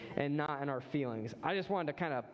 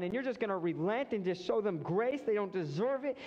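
raised, indignant complaint at God; angry protest; 4 semitones higher than usual. Retold or imitated. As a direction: protest hotly, pitch up high. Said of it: "He is so burning with anger".

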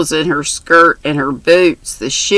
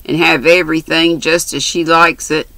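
lightly voiced brash country girl; chatty, bold young girl. Mary's dialogue voiced.

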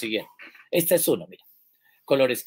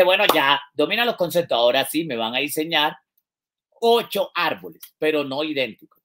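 retold teacher instruction; 4 dB louder than usual. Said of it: "Entonces le dije".

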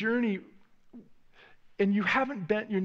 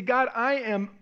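desperate prayer; 2 semitones higher than usual. Pretend. Voiced desperate prayer to God.

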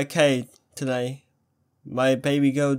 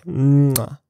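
kiss sound; 2 semitones lower, 5 dB louder than usual. Acted. Kiss for good luck.

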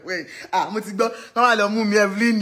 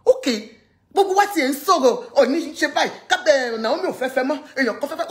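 animated inner voice; 4 semitones higher, 3 dB louder, faster than usual. Retold or imitated. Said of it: "So I was thinking to myself".

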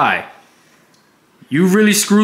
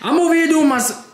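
laughing protest; 11 semitones higher than usual. Real, not acted. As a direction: laugh while denying it all. Defensive reply, laughing.

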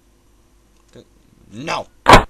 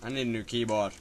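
loud, fast grumbling; exasperated rant; 3 semitones lower, 10 dB louder, faster than usual. Real, not acted. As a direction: blurt out the excuse.

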